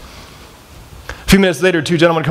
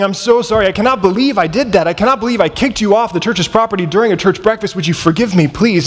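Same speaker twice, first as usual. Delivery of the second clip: higher-pitched, pleading apology without real tears; retold weeping plea; 4 semitones higher than usual. Big guy apologizing in a big church, imitated tearful pleading. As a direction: imitate a man begging forgiveness. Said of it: "He's weeping".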